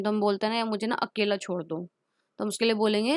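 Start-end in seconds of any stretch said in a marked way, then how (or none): 0.6-1.9 weary sad plea. Retold or imitated. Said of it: "जब हम गुस्से में होते हैं या फिर उदास होते हैं".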